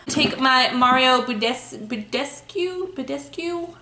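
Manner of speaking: sounding out Budescu slowly, trying twice; unsure pronunciation. Real, not acted. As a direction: stumble over Budescu, testing the sound. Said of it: "I don't know how the hell you say it".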